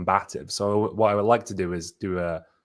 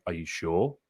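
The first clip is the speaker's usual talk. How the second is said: lower, softer challenging question; 3 semitones lower, 5 dB quieter, slower than usual. Shown as a demonstration. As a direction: question their answer combatively, pitched down. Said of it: "I sound like I'm challenging them".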